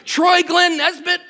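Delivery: lightly imitated mom calling his full name; a hint of a mother summoning her son; mock call of a son in trouble. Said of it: "She would cry out to me".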